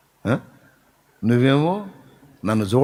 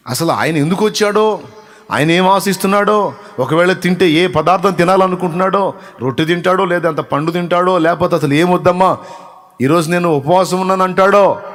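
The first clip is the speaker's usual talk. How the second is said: higher, louder, urgent sermon build; fervent preaching; 7 semitones higher, 5 dB louder than usual. Acted. Preacher urging the church to know the Lord, fervent and loud. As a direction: drive the point home to the congregation.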